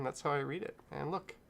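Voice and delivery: talking through hiccups; hiccuping between words. Real, not acted. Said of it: "Sorry, I'm hiccuping".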